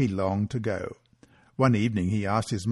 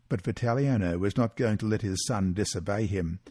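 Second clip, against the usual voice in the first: usual speaking voice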